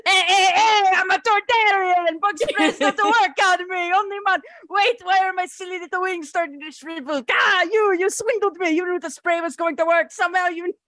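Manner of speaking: hammy whiny junk dealer voice; Watto voice. Acted. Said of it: "do a decent Watto voice".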